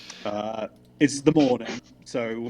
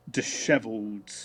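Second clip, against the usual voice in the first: ordinary delivery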